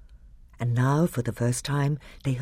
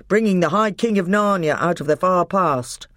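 proud louder dwarf announcement; triumphant dwarf voice; gruff dwarf; 6 semitones higher, 5 dB louder than usual. A narrator's reading.

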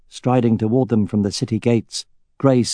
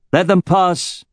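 sharp raised shout; 9 semitones higher, slower than usual. A narrator's reading. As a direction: bark the order to let them through. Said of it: "but Roran shouted".

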